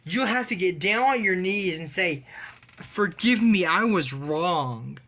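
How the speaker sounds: hammed-up bully voice; mock bully order. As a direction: sneer the demand to kneel. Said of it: "remember what they did to her".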